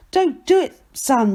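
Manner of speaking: high, loud plea falling off; warning yell. A narrator's reading. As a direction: yell to stop someone. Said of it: "yells Annie".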